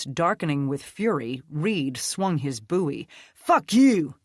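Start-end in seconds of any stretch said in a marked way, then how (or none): 3.3-4.2 loud, high snarled curse; raging curse at her; furious curse. Acted. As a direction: spit it with fury. Reed swinging in fury.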